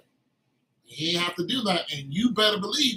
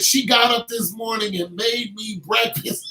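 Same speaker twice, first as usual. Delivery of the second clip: excited retelling; 5 dB louder than usual. Retold or imitated. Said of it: "He said".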